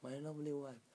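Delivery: a touch of pleased affection, retold; happy husband. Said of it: "And Ali was happy".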